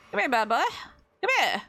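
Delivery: taunting voice. Pretend. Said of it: "Why am I talking like this?".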